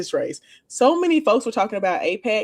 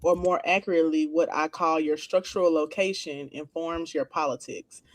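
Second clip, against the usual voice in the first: measured, lower read-out of a definition; reading aloud; 4 semitones lower than usual. Real, not acted. Reading a definition of identity politics to co-hosts, measured read-aloud.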